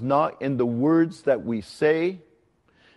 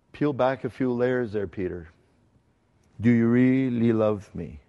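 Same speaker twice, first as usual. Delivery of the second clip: gentle, kind voice. Retold or imitated. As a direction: coax him to look inside, kindly. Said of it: "I hear Jesus speaking in a very gentle tone of voice".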